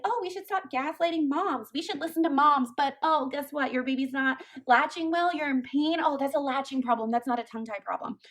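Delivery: sarcastic parody of a dismissive consultant; mocking imitation. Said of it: "people who say, like".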